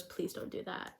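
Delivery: soft unvoiced whisper, pleading; whispered plea. Girl whispering to her crush who hides her face, softly pleading. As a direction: breathe it out as a tender plea.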